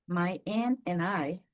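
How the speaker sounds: "My Anne and I" run together as "maj en ena i", T and D dropped; linked pronunciation. Shown as a demonstration. Teacher showing students the dropped T in Anne, slow linking. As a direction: say "My Anne and I" slowly with no T and no D sound. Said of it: "por que que eu falo Anne".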